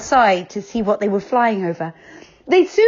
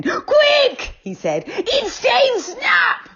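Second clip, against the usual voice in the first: high, urgent panicked cry; alarmed shout; much slower than usual. Acted. Sudden alarm, fleeing.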